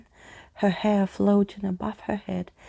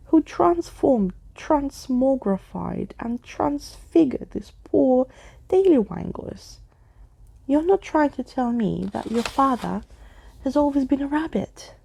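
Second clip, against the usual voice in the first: indignant cry; 6 semitones higher, 3 dB louder than usual. Acted. Skeleton Keys crying out at the family's transformation. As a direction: build the list into outrage. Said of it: "Skeleton Keys cried".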